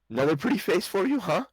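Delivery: high, loud, fast jealous jab; jealous yell. Acted. Angry wife yelling at her husband as the wagon rolls by. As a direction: snap it at him in a huff. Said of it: "you hear her yell at him".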